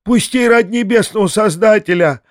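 high, reedy begging voice; wheedling drunkard begging to be let out; thin, quavering plea. A narrator's reading. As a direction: plead in a thin, trembling high voice. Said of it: "тонким дребезжащим голосом".

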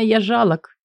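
usual speaking voice

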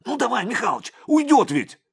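high, loud, desperate urge; he'll get away, hurry; urgent begging. A narrator's reading. Young cop urges Mikhalych before the man escapes, high and loud.

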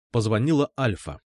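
ordinary delivery, nothing marked

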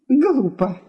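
irritated. A narrator's reading. Wife rebukes husband before a guest, irritated. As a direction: cut him down with annoyance. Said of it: "раздражённо сказала жена".

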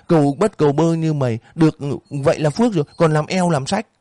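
put-on high, ranting old woman, spitting insults; landlady cursing the cowherd, high angry rant; furious landlady. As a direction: berate the orphan in a rising rage. Bảy Vàng cursing the orphan.

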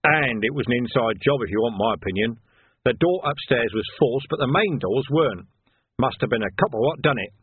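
a hint of a working copper giving his verdict; lightly voiced sergeant. Nock gives Vimes his theory of the theft, knowing sergeant.

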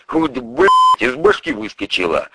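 a crime boss chewing out his prosecutor; furious boss. Acted. Boss grumbles.

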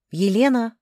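calling out loudly for someone. A narrator's reading. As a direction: call her name down the hall. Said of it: "громко позвала я".

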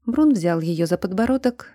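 ordinary delivery

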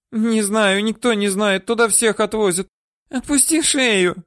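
put-on high, whiny old-woman voice; woman whining denials at her captor; whimpering. Woman pleading.

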